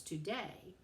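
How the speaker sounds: "today" with the weight on DAY; stress on second syllable. Shown as a demonstration. Teacher showing students an iambic foot, "today" stressed on DAY. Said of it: "the stress is on the second syllable".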